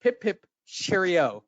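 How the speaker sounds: slow, hammed-up English accent; deliberate fake British phrase; mock British. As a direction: say it like a cartoon Brit. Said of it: "let me reiterate, I said".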